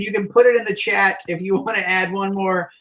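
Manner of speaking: normal talking voice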